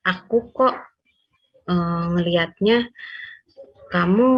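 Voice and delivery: gentle, hesitant checking with pauses; tentative confirming. Shown as a demonstration. Partner asking if the other was really listening, tentative. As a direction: check carefully, without blaming. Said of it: "Itu konfirmasi".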